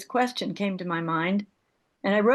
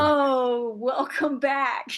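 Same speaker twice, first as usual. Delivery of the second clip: laughing; 4 semitones higher, much slower than usual. Real, not acted. Laughs at member lurking online.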